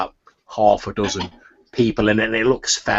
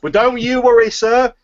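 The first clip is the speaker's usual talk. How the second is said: much higher, chatty market woman; gossiping turnip seller; 6 semitones higher, 5 dB louder than usual. Acted. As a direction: gossip eagerly, louder in bursts. Seller gossips about Alamina.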